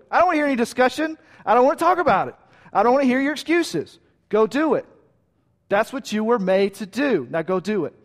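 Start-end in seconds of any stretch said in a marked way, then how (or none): 0.1-4.9 insistent, no discussion. Acted. God refusing any discussion.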